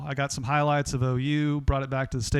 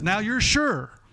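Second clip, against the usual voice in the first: Bob Knight; 5 semitones higher, 4 dB louder than usual. Retold or imitated. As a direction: lean on "really" and dare him to ask. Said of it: "Bob Knight interrupts him and says".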